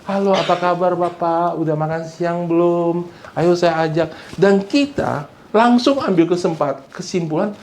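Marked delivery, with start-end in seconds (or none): 0.0-4.1 lightly voiced friendly host; a touch of eager hospitality; friendly politeness. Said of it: "Banyak orang Indonesia begitu". (sedikit nada ramah tamah)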